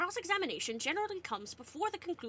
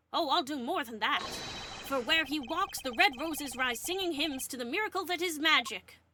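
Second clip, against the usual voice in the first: grandiose magician; 3 semitones higher, 4 dB louder than usual. Acted. Magician character's grand declaration.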